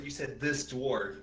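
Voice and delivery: "this" leaned on, drawn out slowly; stress on THIS. Real, not acted. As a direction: stretch the word "this" to query it. Player corrects the game master's wording.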